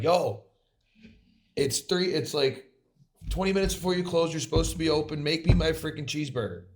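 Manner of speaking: snapping at the worker. Retold or imitated. Customer snaps at the Wendy's worker, heated retold complaint. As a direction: snap at the worker in the retelling, half joking. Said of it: "snapping on him".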